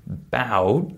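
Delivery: "bout" drawn out with a rise; long stressed syllable. Shown as a demonstration. Teacher isolating the second syllable of "about", long stressed "bout". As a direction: give "bout" the full length of a stressed syllable. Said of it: "was probably four times longer".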